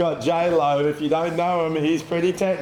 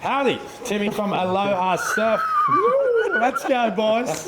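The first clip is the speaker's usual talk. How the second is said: frat bro; 8 semitones higher, slower than usual. Acted. Hyped intro to camera.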